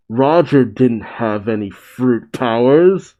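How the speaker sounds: rising, incredulous read; questioning surprise. Acted. Reader reacting to the reveal about Roger, questioning. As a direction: lift the end into a question. Quote, then restated by the reader.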